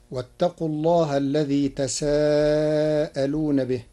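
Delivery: long held aa in تساءلون; recited verse citation. Shown as a demonstration. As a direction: stretch the aa of تساءلون in measured recitation. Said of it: "قرأ ورش كلمة تساءلون".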